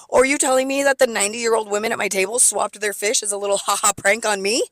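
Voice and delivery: sarcastic jab at the manager. Retold or imitated. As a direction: needle him with fake politeness.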